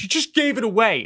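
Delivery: lightly acted squabble; mock accusation. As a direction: imitate a spouse accusing. Acts out parents' quarrel.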